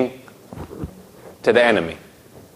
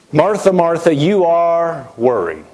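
kindly Jesus; 3 semitones higher than usual. Acted. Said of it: "I'm sure very kindly".

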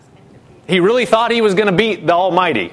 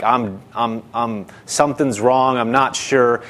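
mildly burdened, lower and hesitant; weighed-down uncertainty; 5 semitones lower than usual. Acted. Believer feeling something is wrong, hesitant and unsure. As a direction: falter slightly, as under a weight. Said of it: "a weight that makes you feel like".

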